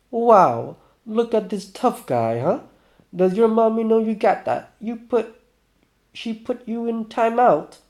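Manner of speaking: high, drawn-out sarcasm; acted sneering, pitched well up; mocking taunt. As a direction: needle him as a little kid. Acted mocking of armed rival.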